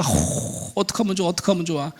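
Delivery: soft, fretful motherly sympathy; long sigh, then softly commiserate; empathizing mother. Acted. Mother sharing her daughter's shame, soft sympathetic fretting. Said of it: "정말 제대로 공감하는 엄마겠죠".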